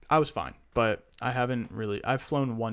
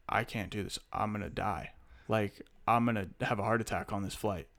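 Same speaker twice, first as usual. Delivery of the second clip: softer, hushed retold plea of panic; panicked plea; 4 semitones lower, 7 dB quieter than usual. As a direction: murmur it like you're sure you'll die. Retelling panic to his mom.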